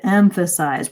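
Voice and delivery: "emphasize" held out as the key word; stress on EMPHASIZE. Shown as a demonstration. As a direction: stretch and lift "emphasize". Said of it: "I said that word more slowly".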